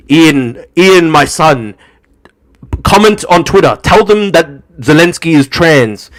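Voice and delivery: loud mock command to a puppet; imagined Kremlin handler. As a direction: issue orders like a controlling master.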